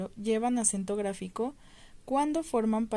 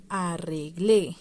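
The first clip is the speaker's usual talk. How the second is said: arreglé slowed down, final -GLÉ punched; a-rre-GLÉ, weight on the end; stress on final syllable; 4 semitones lower, 4 dB louder, much slower than usual. Shown as a demonstration. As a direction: sound out arreglé and hit the last é. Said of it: "al final".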